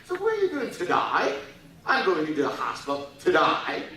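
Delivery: put-on Australian accent with the I in "die" said like "day". Australians asking about the hospital, Australian accent. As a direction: mimic an Australian vowel in "die". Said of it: "they pronounce the I".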